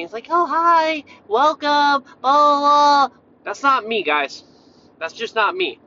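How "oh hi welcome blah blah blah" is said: mock-cheerful greeting, high and held out; smiley greeter. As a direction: parody an overly chirpy welcome, pitched up and louder. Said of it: "gives you the smile every day".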